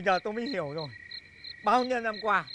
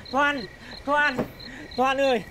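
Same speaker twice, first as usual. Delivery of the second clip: calling after her; slower than usual. Acted. Calling after leaving lover.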